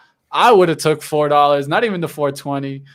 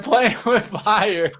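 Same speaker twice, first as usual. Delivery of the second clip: laughing; 5 semitones higher, much slower than usual. Acted. Repeats his boast, laughing.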